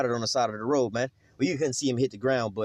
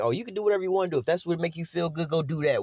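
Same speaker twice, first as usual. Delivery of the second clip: mocking mothers; 3 semitones higher than usual. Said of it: "they be like".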